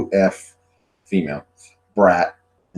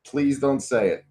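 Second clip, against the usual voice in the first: slightly raised, mock dread; retold pleading; 4 semitones higher than usual. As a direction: beg them not to. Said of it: "I go".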